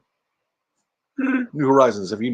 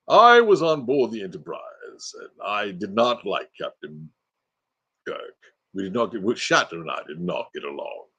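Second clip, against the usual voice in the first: put-on older slower Sulu; 4 semitones lower, 3 dB quieter than usual. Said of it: "now he's older and talks slower".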